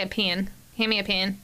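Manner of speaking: "pen" drawled toward "pan", a Southern slip; "Hand me a pen" with a Southern twang on the vowel. Shown as a demonstration. Northern transplant slipping into a Southern "pen". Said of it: "I might slip up and say".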